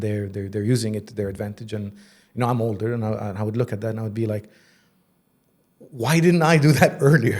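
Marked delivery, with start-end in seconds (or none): 5.8-7.4 laughing at himself. Retold or imitated. Rueful self-quote, laughing.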